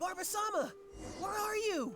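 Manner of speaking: very high, yelled calling out. A character searching for someone calls out: yelling. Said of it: "Unless we could start yelling too".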